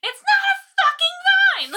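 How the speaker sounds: high, loud, slow yell of disbelief; mock outraged yell. Yelling at a cartoon that got fuchsias wrong, outraged. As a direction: shout it at the screen like it wronged you. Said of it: "I'm like".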